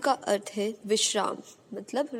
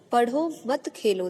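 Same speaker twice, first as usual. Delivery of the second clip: पढ़ो set apart from मत खेलो; short break after पढ़ो, then मत खेलो; pause after पढ़ो; slower than usual. Shown as a demonstration. Teacher repeating the punctuation example, pause after पढ़ो. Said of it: "पढ़ो के बाद रुकने के लिए बोला गया है".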